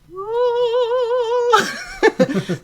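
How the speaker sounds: high, held celebratory note, then laugh; imitated delight. Showing joy at a good circle, high sustained mock-triumph sound. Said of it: "it's like".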